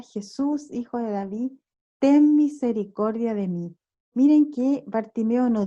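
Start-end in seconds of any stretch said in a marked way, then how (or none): 0.0-3.8 raised plea, only lightly called out; mild imitated cry. Preacher quoting Bartimeo calling to Jesús, mild imitated cry. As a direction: mildly imitate crying out for mercy. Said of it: "comienza a gritar".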